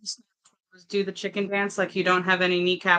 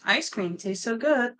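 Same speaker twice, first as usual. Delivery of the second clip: slow, drawn-out satisfied voice; slow dreamy voice; 5 semitones higher, 3 dB louder, slower than usual. Pretend. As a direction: savor every word slowly. Acting TikTok reaction trend.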